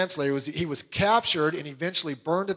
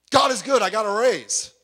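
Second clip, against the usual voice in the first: higher, louder gushing praise; mock gushing; 3 semitones higher, 3 dB louder than usual. Preacher mocking a shallow testimony, gushing. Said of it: "You know, uh, uh".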